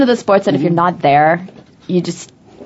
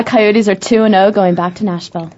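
news reporter voice. Real, not acted. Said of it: "You said that like a news reporter".

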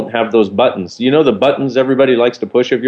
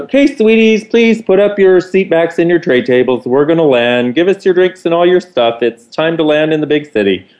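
higher, sing-song camp steward over the intercom; higher theatrical camp cabin-crew voice; camp flight attendant; 6 semitones higher than usual. Retold or imitated. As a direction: ham up a sassy flight attendant, pitched up.

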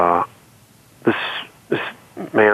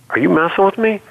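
incredulous; 9 semitones higher than usual. Retold or imitated. Doubts the coach's praise.

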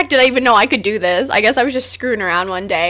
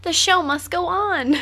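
raised, drawn-out showbiz proclamation; theatrical declaration; 7 semitones higher, slower than usual. Pretend. Radio host to co-host, the show must go on, theatrical declaration. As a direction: declare it grandly, stretching it out.

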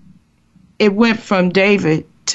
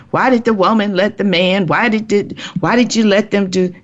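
fast, higher-pitched string of questions; imitated blaming questions; 5 semitones higher, faster than usual. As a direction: rattle off others' accusing questions in a raised pitch. Mimics people's blaming questions.

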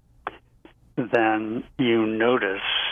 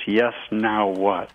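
calm acceptance; slower than usual. Shown as a demonstration. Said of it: "So it's".

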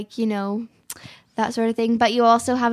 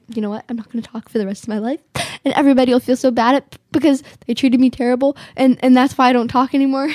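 fast dramatic pouting; 4 dB louder, faster than usual. Retold or imitated. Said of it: "I'll say".

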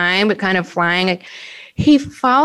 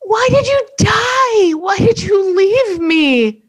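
crying dog voice; 12 semitones higher, slower than usual. Retold or imitated. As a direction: wail for your lost owner. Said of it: "chocolate lab comes forward".

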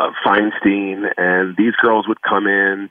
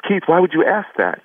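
a hint of a worried mother, pitched higher; mother's voice; 9 semitones higher than usual. Mom asking young son what's wrong, lightly voiced higher.

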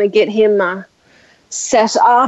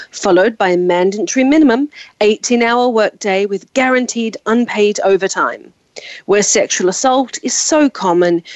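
ad read. Acted. Mock ad read with warnings.

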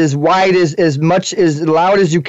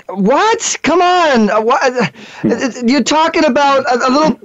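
high, incredulous what and come on; can't believe what you're seeing; exasperated disbelief; 5 semitones higher than usual. Real, not acted. Host reacting to influencers' empty videos in high disbelief.

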